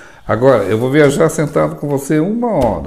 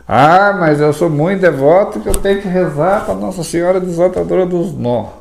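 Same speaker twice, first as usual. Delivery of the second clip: higher, lightly mocking churchgoer voice; mocking a devout Catholic; 5 semitones higher than usual. Imitating a devout Catholic who insists on praying, mildly higher. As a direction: parody the overly devout believer. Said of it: "O povo que é católico fala assim".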